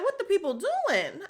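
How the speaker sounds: high, laughing squeal; retelling a friend bursting in, excited laugh; mock excited greeting. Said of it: "She's like".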